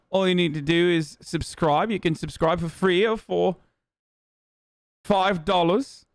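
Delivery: lightly mocked British accent; put-on British accent. Streamer pitching subscriptions to viewers, lightly put-on British accent. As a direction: keep up a wobbly fake British accent. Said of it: "I can't do it anymore".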